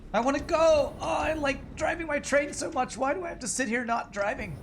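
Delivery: squeaky high whiny voice; silly clown. Pretend. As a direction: whine like an impatient kid. Voicing the honking train drivers.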